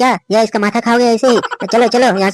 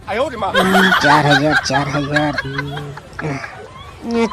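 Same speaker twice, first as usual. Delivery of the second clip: हँसते हुए; 6 semitones lower, 5 dB quieter, much slower than usual. Acted.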